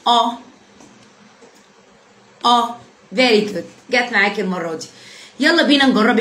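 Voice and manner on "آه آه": "آه" as a heavy, back 'ah'; emphatic A demo. Shown as a demonstration. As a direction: model "آه" full and round, one at a time. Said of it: "يلا جرب كده".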